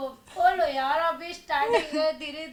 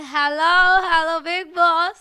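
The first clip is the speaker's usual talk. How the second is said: louder, drawn-out catchphrase delivery; her signature catchphrase; 4 dB louder, much slower than usual. Retold or imitated. Guest shows fans her Bigg Boss catchphrase, louder and drawn out. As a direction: belt out the trademark line like on the show. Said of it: "और मेरा style".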